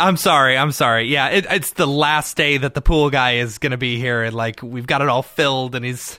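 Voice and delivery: panting between words after a run; breathless from sprinting upstairs; out of breath. Real, not acted. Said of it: "now I'm out of breath from running upstairs".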